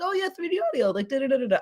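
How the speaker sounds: high, airy, carefree mock-casual; lightly mocking a casual client; breezy dismissive. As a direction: toss it off like it's nothing. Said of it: "People are like".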